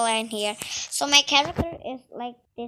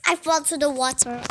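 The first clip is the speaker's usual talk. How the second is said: fast, crying shout of dismay; upset shout; faster than usual. Real, not acted. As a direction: wail it quickly, half crying. Falling in game.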